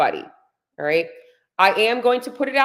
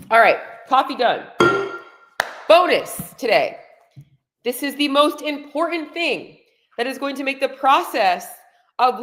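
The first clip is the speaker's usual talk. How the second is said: too much caffeine; 5 semitones higher than usual. Real, not acted. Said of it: "freaking on fire today".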